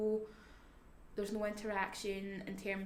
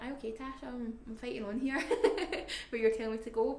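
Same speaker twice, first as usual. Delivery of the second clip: a higher mock mum voice that breaks into a laugh; 4 semitones higher, 6 dB louder than usual. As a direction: play her mum fighting on, laughing through it. Voicing her mum, laughing.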